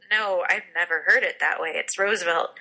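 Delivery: Roosevelt as "ROSE-uh-velt"; correcting pronunciation. Retold or imitated. People telling the speaker off, Roosevelt with a rose vowel. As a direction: Roosevelt with a long o in the first syllable. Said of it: "the more I'm told".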